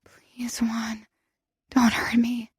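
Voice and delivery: frightened whispered whimper. Acted. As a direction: whimper it, barely voiced. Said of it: "I close my eyes and whimper".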